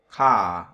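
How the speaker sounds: "khả" left open, with no R after it; KHẢ without R. Shown as a demonstration. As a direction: say "khả" and drop the R. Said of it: "đọc không thôi, không cần phải chữ R". (đọc "khả" không có chữ R)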